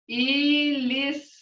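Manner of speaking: iliski said slowly with a rising end; slow teaching demo of iliski; sound it out. Shown as a demonstration. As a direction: stretch iliski out slowly, ending up. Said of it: "Look here, the sound".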